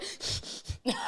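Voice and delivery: mimicked nasal snort; imitated snort. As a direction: snort through the nose in imitation. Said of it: "I just think I snorted".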